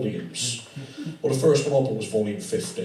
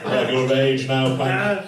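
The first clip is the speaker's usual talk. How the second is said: Captain Mainwaring voice; 3 semitones lower, slower than usual. Retold or imitated. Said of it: "Mannering would show to Pike".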